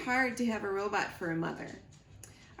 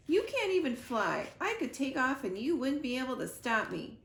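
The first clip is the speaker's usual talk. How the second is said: defiant gosling; 4 semitones higher than usual. Acted. Gosling defies his mother.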